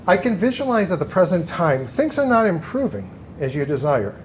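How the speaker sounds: lightly put-on fortune teller voice; psychic voice. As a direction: read it like a stage psychic. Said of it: "I'm putting on my best psychic voice".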